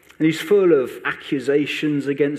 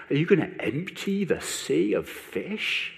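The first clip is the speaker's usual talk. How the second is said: sarcastic; 4 semitones higher than usual. Acted. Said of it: "And you get sarcastic".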